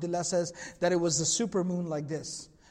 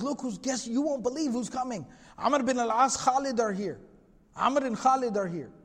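mildly acted excited announcement, higher in places; retold excitement; 4 semitones higher than usual. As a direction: imitate someone bursting in with big news. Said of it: "you know, very excited".

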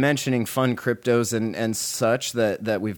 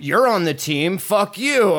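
mock angry crowd; 7 semitones higher, 4 dB louder than usual. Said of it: "people are like".

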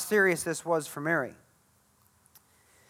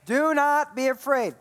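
emphatic call; 5 semitones higher than usual. Shown as a demonstration. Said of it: "Somebody say".

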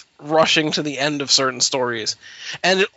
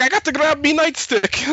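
mock Irish cop brogue, pitched up; stereotypical Irish cop; 10 semitones higher than usual. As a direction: ham up a stage-Irish policeman accent. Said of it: "like he's a stereotypical Irish cop".

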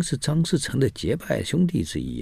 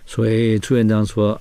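ordinary delivery

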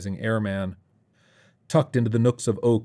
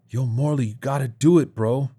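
lightly voiced higher-pitched kid; a hint of a kid urging his friend on; eager street kid; 5 semitones higher than usual. A narrator's reading. Kid urges Morley to go in, lightly eager. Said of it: "said one of the kids".

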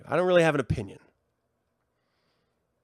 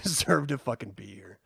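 ordinary delivery

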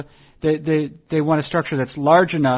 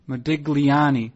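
Modigliani said slowly at normal level, each syllable drawn out; a slow relishing Modigliani; slow careful repeat; slower than usual. Shown as a demonstration. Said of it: "How about this last name?".

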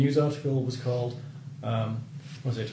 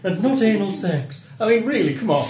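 creepy man voice; 4 semitones higher, 6 dB louder than usual. Acted. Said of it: "creepy British pedophile voice".

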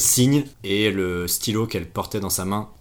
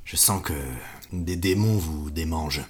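suave voice; 3 semitones lower than usual. Acted. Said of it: "il a une voix très suave, comme ça, il fait".

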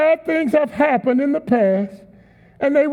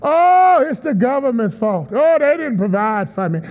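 whiny blamer. Retold or imitated. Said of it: "they love to blame other people".

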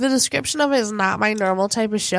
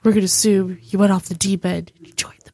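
whisper; 4 semitones lower than usual. Acted. Joking threat whisper.

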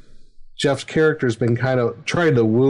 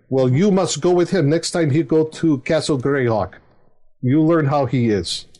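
put-on lightly accented father giving orders; a hint of the commanding father, in broken English; stern father; 3 semitones higher than usual. Father ordering his daughter to go with the barbarian, lightly accented. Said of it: "I kind of turned it around and said".

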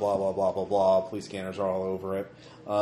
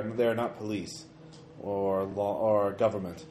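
telepathic Rat King voice; 3 dB quieter than usual. Acted. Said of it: "He's saying".

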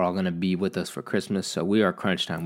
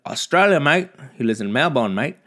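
higher, louder mock Aussie; hammed-up Australian, pitched up; Australian accent; 6 semitones higher, 5 dB louder than usual. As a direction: lay on a bad Australian accent. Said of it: "What the fuck is that?".

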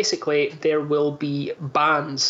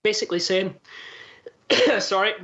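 choking mid-sentence; talking while choking; 5 semitones higher, faster than usual. Real, not acted.

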